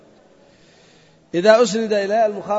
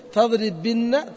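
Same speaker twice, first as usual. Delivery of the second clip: slow demo; much slower than usual. Shown as a demonstration. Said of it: "تقول".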